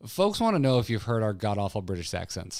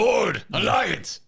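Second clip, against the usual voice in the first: high, loud, drawn-out rallying cry; hammed-up wrestler roar; Chris Metzen impression; 11 semitones higher, 7 dB louder, much slower than usual. Shown as a demonstration. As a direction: bellow it slowly like a wrestling promo. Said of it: "that's the Chris Metzen experience".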